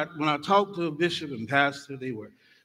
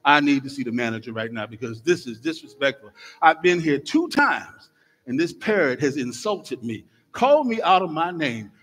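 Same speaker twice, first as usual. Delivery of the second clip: indignant customer; 4 dB louder than usual. Acted. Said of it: "She said".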